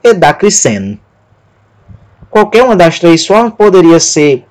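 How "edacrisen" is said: edacrisen with the weight moved to another syllable; another possible stress. Shown as a demonstration. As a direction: offer edacrisen as a third reading. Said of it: "E outro ainda poderia pronunciar".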